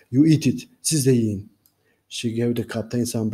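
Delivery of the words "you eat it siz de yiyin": defiant challenge. Acted. Elizabeth daring Barbossa to eat first, defiant and loud. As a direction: throw the dare back at him.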